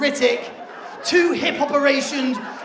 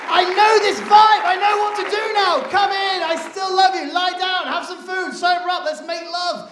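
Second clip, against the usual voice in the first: high, loud, quick; eager realisation; 5 semitones higher, 6 dB louder than usual. Retold or imitated. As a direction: gush it out eagerly. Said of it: "And he's like".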